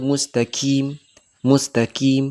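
মুস্তাকিম said with a light কাফ, the common mistake; মুস্তাকিম with an ordinary k; wrong pronunciation. Shown as a demonstration. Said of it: "কাফ পড়ে".

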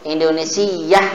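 "Indonesia" ending in an audible h; final H sounded. Shown as a demonstration. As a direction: say "Indonesia" as Indunisiyah, breathing out a final h. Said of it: "pakai H".

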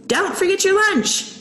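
high-pitched, excited mock yell; mom's excited exclamation, pitched well up. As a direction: call it out excitedly without extra volume. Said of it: "yelled Mom".

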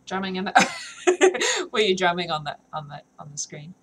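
laughing question. Real, not acted. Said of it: "I said".

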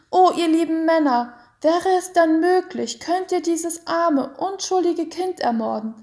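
high, loud, tearful pleading; weeping and wailing. A narrator's reading. Mother begs the men, weeping, to spare her child. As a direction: beg for your child's life through tears. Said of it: "rief weinend und jammernd".

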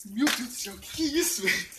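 high, loud cold-shock yelps; shrieking from icy water; in ice cold water. Real, not acted. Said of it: "Tá gelado".

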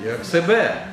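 "себе" lifted and pressed; stress on себе. Shown as a demonstration. Priest shows congregation the right stress: "себе" pressed. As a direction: land the weight on "себе". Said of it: "А треба на що зробити наголос".

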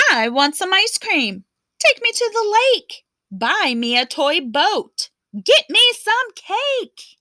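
high, loud spoiled-brat demands; bossy child. Acted. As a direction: snap out orders like a spoiled girl.

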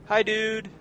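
high, loud, singsong hello; mock-friendly, held-out greeting; playful greeting. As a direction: call out cheerily to a game enemy. Calling to game character.

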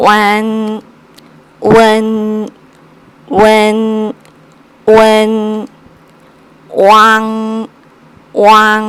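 loud, clear pinyin syllables, each one repeated; pinyin drill. Shown as a demonstration. Teacher drilling w-initial syllables loudly. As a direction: call out ยง อู วา โว ไว เวย วัน เวิน วัง วึง one by one. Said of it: "อ่านออกเสียงเป็น อี กับ อู".

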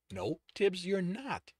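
pleading. A narrator's reading. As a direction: plead with a friend to admit it. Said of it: "Kenny pleaded".

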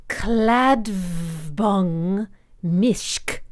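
lightly voiced elf; a hint of an elf saying the name. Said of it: "say it like I'm an elf".

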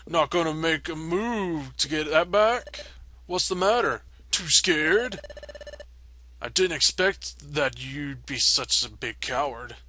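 lightly voiced taunting villain, drawn out; slow, mocking bad-guy taunt, lightly put on; Wario. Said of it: "he sounds like Wario, or Waluigi".

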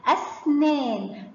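"أسنان" split after أس, then a long نان; slow syllable-by-syllable "أسنان"; sounded out. Shown as a demonstration. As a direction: break "أسنان" in two, holding the final long aa. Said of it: "أنطقه مع الحرف اللي قبله".

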